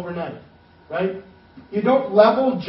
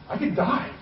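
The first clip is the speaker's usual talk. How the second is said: high, panicky voicing of Nehemiah; acted terror; 4 semitones higher, 5 dB louder, slower than usual. Nehemiah fearing the king could kill him, mock-terrified. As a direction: build from a strained hush to a loud, high panic. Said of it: "he's terrified".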